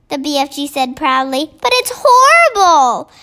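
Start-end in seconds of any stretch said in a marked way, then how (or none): 1.6-3.1 put-on high, louder horrified girl; horrified cry. A narrator's reading. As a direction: recoil from it in horror. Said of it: "Sophie cried".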